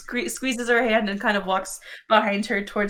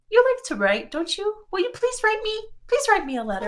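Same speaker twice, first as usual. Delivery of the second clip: higher, wavering plea on the edge of tears; tearful plea; 11 semitones higher than usual. Acted. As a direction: Gris begging Bee to write to her, tearful and high. Gris tearfully asks Bee to write.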